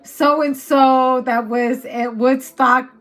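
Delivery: loud, lightly mocking public announcement; cheeky announcement breaking into a laugh; social media shout-out. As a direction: read it out like a callout to everyone. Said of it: "someone's gonna put it on the post".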